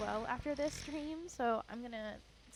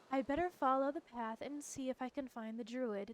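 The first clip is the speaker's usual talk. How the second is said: put-on lightly theatrical British accent; affected British adventurer; 3 semitones higher, 4 dB louder than usual. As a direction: narrate your quest in a mock British accent. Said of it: "I'm stuck in this voice".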